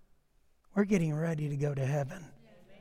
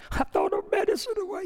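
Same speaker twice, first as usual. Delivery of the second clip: mock wailing wife; 13 semitones higher than usual. Crying wife quoted.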